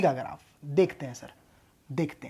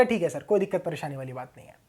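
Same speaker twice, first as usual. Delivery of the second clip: quoted student reply; 11 semitones lower, 12 dB quieter than usual. Retold or imitated. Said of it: "मैंने कहा".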